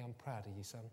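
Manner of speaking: low, hushed fatherly pride; proud dad. Retold or imitated. Dad hugging his preacher son, quietly proud. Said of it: "he said to me".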